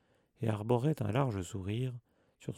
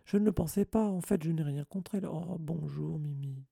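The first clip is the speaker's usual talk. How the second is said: flustered backpedalling; 5 semitones higher than usual. A narrator's reading. Hermione covers up as Mimi arrives, flustered. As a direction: backpedal nervously, then greet sheepishly. Caught out, backpedals then greets.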